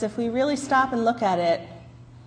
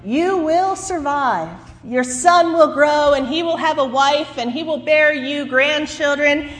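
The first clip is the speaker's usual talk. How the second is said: voice of God; 4 semitones higher than usual. Acted. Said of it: "said the voice of God".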